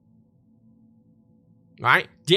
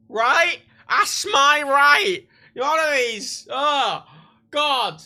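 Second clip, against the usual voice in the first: mock macho man; 8 semitones higher, 5 dB louder, much slower than usual. Mocking macho real man.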